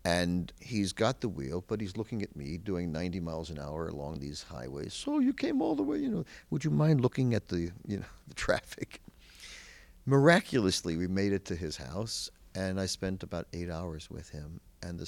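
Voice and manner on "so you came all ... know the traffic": nervous laughing plea. Retold or imitated. Nervous passenger asks driver to watch road.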